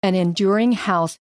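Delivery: measured, earnest Bible reading; scripture reading. Acted. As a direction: read Abigail's plea with care. Reads scripture aloud.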